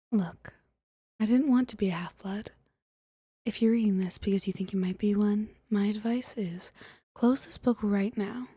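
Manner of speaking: measured, controlled audiobook reading; story narration. Acted. Streamer reading Percy Jackson to viewers for ASMR, story narration. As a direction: read it aloud calmly, with deliberate pauses. Reads the book aloud to viewers.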